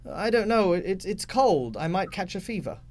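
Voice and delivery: put-on a wary child whining about the cold; child's voice. Child answering the father.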